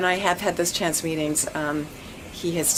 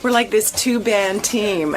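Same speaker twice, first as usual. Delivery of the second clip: laughing excitedly; 5 semitones higher, 4 dB louder than usual. Real, not acted. Laughing excitedly about promo.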